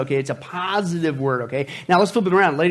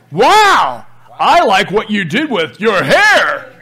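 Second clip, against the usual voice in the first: gushing compliment; 2 semitones higher, 7 dB louder, much slower than usual. Shown as a demonstration. Pastor models a compliment, laughing.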